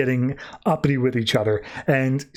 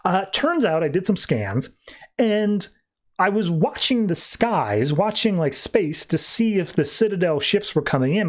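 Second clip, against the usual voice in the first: higher, lightly absent-minded delivery; scatterminded; 5 semitones higher than usual. Acted. Doc reports to Primus what scans found, scatterminded. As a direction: remember it mid-call and ramble on. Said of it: "Doc's very scatterminded".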